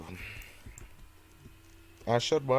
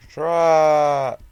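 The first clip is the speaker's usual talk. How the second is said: shout; 5 semitones higher, 12 dB louder than usual. Real, not acted. Spots the truck in game.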